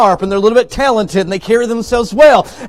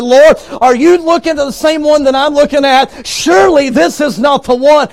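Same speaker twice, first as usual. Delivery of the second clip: disbelieving; 6 semitones higher, 3 dB louder than usual. Acted. Samuel questions the Lord in disbelief.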